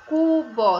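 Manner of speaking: cubo loudly divided as CU-BÓ; teacher breaking cubo in two; syllable by syllable. Shown as a demonstration. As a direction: stress both halves of cubo. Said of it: "Tem quantas sílabas?".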